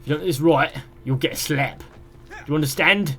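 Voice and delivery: attempted London accent, threatening. Shown as a demonstration. Streamer retries the requested London accent, accent not quite landing. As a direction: have a shaky go at a London accent. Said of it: "No, I can't do it".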